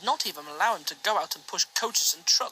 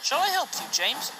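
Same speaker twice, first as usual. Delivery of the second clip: higher, louder friendly call; Edward calling; 8 semitones higher, 3 dB louder than usual. A narrator's reading. Edward calling to James, higher and louder. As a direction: offer help across the line.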